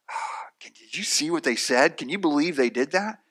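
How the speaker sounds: breathy sigh into scandalized griping; mock-gossip disbelief, opening on a sigh; exasperated sigh, disbelief. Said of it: "more than just a sigh".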